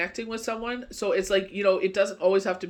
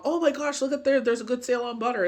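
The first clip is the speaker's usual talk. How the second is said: higher-pitched, eager retelling of a find; mock excitement; 5 semitones higher than usual. Retelling spotting a butter sale to mom, mildly excited. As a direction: play up the thrill a little.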